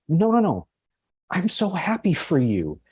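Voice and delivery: retold heartfelt reassurance. Co-teacher reassures her pregnant friend, retold heartfelt reassurance.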